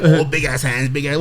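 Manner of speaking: lightly imitating a friend's teasing; mocking friend. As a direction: toss it off like a buddy ribbing you. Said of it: "you always say, like".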